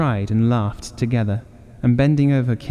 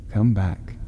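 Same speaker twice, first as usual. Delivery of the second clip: tender. Acted. Husband calls wife back from the window tenderly. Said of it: "he said tenderly".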